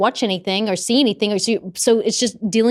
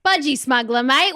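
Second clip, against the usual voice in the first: Australian accent; 4 semitones higher than usual. Shown as a demonstration. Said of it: "Australian saying performed".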